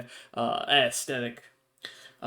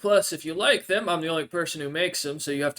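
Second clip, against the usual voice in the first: NPC voice; 4 semitones higher, 5 dB louder than usual. Acted. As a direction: lift into the odd creature's voice, grateful but hungry.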